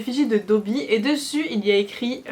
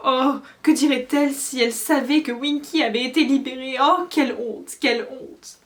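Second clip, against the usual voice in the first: lamenting squeaky elf; 4 semitones higher, 5 dB louder than usual. A narrator's reading. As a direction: mourn her lost master. Winky lamenting her master.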